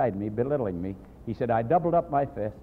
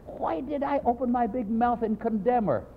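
self-reproach; 10 semitones higher than usual. Retold or imitated.

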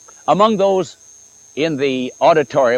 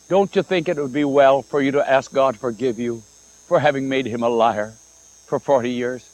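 mellowed voice. Retold or imitated. Pastor tries not to discourage the woman, mellowed voice. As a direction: soften it kindly so as not to discourage. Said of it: "He tried to mellow his voice".

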